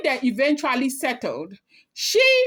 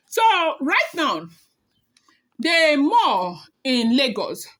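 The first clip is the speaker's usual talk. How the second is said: whisper; 3 semitones higher, slower than usual. Acted. Hushed aside while spilling gossip.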